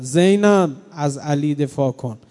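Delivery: mournful preacher calling out زینب; calling out urgently. Acted. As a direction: charge her daughter with a duty, crying out her name. Zahra charging Zeinab, calling out.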